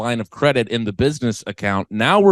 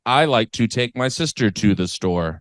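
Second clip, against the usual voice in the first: mock French classroom recital; measured, fake French accent; put-on French accent; 3 semitones lower than usual. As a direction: lightly imitate a French textbook sentence. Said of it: "You're kinda putting on the accent".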